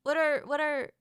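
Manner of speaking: trying out Australian vowels; Australian accent attempt. Shown as a demonstration. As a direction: test Australian pronunciations word by word. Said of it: "Australian phrases".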